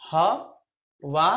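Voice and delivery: हवाना drawn out very slowly; slowly stretched. Shown as a demonstration. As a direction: linger on हवाना. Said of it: "drilling the word". (हवाना को बहुत धीरे खींचकर)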